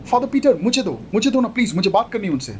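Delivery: put-on young woman voice, mild; lightly voiced young bride. Sonia voiced higher than narrator.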